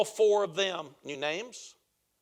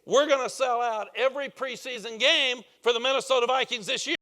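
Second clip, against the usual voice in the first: higher, louder rallying boast; excited owner; 4 semitones higher, 5 dB louder than usual. Retold or imitated. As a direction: pump up the room like a new owner. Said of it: "I'm so excited about this".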